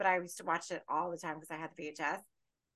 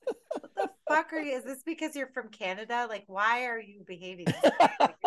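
exasperated rant; 2 semitones higher, 4 dB louder than usual. Retold or imitated. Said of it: "At one point, I was like".

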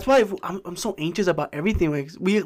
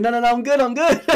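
higher, louder pretend plea; mock panicked protest; 5 semitones higher, 5 dB louder than usual. Coma patient stopping them pulling the plug, mock panicked protest. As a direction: hastily object as if being unplugged, half joking.

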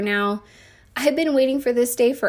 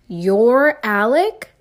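slow, louder, weighing each word; stunned disbelief; 4 dB louder, much slower than usual. Acted. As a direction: let the news sink in as you say it. Mom shocked by the news.

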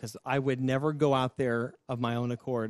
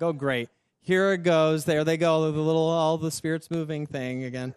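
louder, fed-up retold complaint; irritated; 3 semitones higher, 5 dB louder than usual. Student recalling revival outbreaks in class, irritated. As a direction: grumble it loudly, mock-exasperated. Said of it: "Now I'm way irritated".

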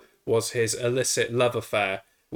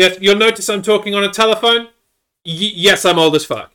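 mock phone voice; 9 semitones higher, 9 dB louder than usual. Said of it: "putting a random dude on the phone".

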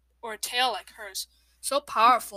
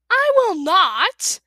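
loud, high, slow stubborn shout; 9 semitones higher, 12 dB louder, much slower than usual. Acted. Clay refusing the river, slow loud high shout. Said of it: "Clay shouted".

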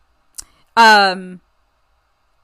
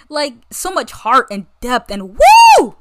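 excited gush; 7 dB louder, slower than usual. Real, not acted. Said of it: "gushing with a cheer".

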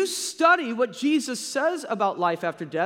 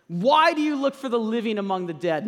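preaching louder; 4 dB louder than usual. Real, not acted. Preacher repeats the question forcefully.

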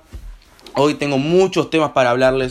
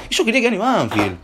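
"Y yo quería que gane Banfield" said again higher, whining; higher whiny repeat; 7 semitones higher than usual. Shown as a demonstration. Complaining to viewers about the team, higher whiny repeat. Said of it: "repeated line".

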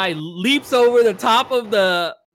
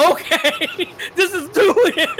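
high, weirded-out aside with a laugh; mock unease; 11 semitones higher than usual. Reacting to the pantsed stranger on the floor, in high mock unease. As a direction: pitch way up, awkwardly amused.

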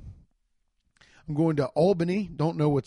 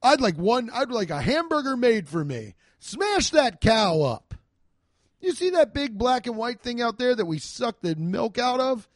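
a duke ordering the first hamburger, grandly; hammed-up old German duke; 6 semitones higher, 3 dB louder than usual. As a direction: boss the cook about like a pompous old noble. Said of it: "not gonna do the voice".

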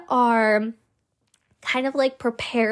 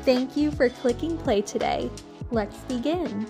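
podcast intro; faster than usual. Acted. Pre-recorded podcast intro over music.

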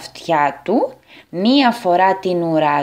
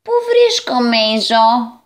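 utterly bewildered; 2 semitones higher, 4 dB louder, slower than usual. Acted. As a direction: call out as if you have no idea where you are. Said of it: "έμοιαζε να τα έχει εντελώς χαμένα". (εντελώς χαμένος)

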